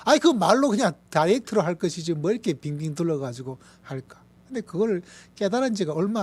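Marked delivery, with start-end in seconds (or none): 0.1-4.2 grumbling complaint. Retold or imitated. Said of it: "제 입장에서는".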